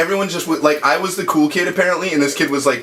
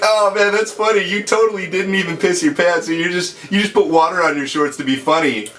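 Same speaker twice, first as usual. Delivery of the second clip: higher-pitched retold amazement; impressed kid; 6 semitones higher than usual. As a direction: mimic a kid who's tickled by a prank. Amused kid praising supposed prank.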